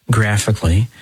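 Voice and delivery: "graphically" set apart after a pause, deliberately weighted; stress on graphically. Real, not acted. Priest warning about a film adaptation, stressing "graphically". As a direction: lean on "graphically" as its own phrase. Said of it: "emphasis on graphically".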